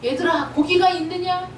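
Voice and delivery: gently acted, affectionate call; loving tone. Preacher as Jesus calling his disciples, mildly loving tone. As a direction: lightly voice a tender question to the children. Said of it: "사랑스러운 말투로".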